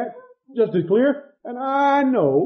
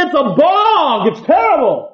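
retold warning; 10 semitones higher, 8 dB louder, slower than usual. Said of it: "He'd say".

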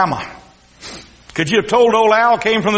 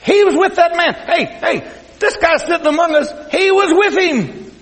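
shouted, high-pitched accusation; 10 semitones higher than usual. Acted. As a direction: raise the alarm and point him out.

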